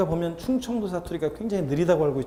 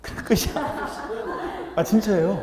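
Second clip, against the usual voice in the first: laughing; 6 semitones higher, slower than usual. Real, not acted. Laughing at own joke.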